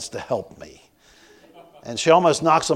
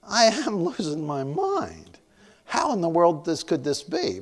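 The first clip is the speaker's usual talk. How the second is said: stunned disbelief; 4 semitones higher than usual. Retold or imitated. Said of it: "I'm thinking".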